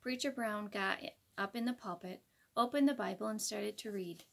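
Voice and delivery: put-on reading a picture book to kids; gentle read-aloud narration; story narration. A narrator's reading. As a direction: tell it like a bedtime storybook.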